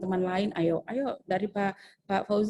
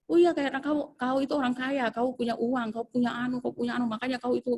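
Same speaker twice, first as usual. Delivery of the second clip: sarcastic scolding; 5 semitones higher than usual. Retold or imitated.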